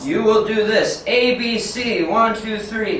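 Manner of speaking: mock a rigid teacher barking orders; lightly voiced rigid drill teacher; stiff strict teacher. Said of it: "you're just like this".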